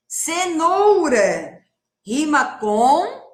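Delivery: very slow, drawn-out Cenoura; slow demonstration read; slow teaching voice. Shown as a demonstration. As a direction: stretch every syllable for the children. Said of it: "teacher models the word slowly".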